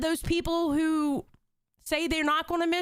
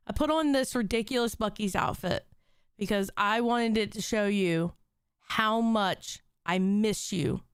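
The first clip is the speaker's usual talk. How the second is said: holding back tears; 6 semitones lower than usual. Real, not acted. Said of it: "I'm not gonna cry".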